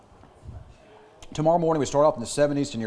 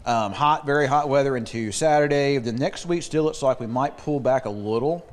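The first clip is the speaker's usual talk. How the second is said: talking through a mouthful of food; mouth full. Real, not acted. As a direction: weather report with a mouth full. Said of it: "I've still got food in my mouth here".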